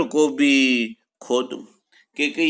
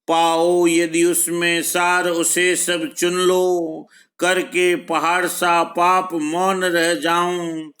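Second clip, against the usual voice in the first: verse recitation; 4 semitones higher than usual. Acted. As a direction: stretch each phrase out in steady metre.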